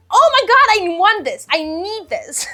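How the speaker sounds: a fan spotting the book of her dreams; gushing over a must-have manga. Retold or imitated. Retelling her TikTok craving, excited squeal. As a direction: jump high and loud on oh my god, then settle. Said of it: "and I was like".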